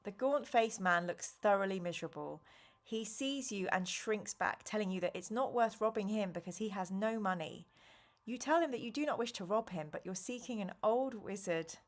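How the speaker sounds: even storybook read-aloud voice; story narration. A narrator's reading. Streamer reading the adventure aloud to chat, narrating. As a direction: read the gamebook to the listeners.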